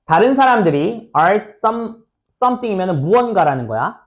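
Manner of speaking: normal talking voice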